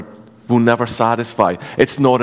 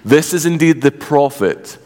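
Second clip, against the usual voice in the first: measured Bible reading aloud; scripture reading. Acted. Pastor reading scripture aloud to church, measured. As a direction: read the Gospel to the congregation.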